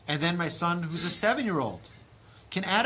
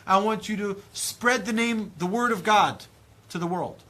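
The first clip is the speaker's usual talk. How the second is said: higher, louder commanding voice of God; voicing God; 4 semitones higher, 4 dB louder than usual. God charging his creations, high and loud. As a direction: speak as God sending people into the world. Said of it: "God says".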